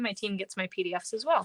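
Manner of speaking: a quick Minnesotan-free whisper, like sharing a secret; whispered aside. Real, not acted. Crafter tells viewers a team perk in a whisper.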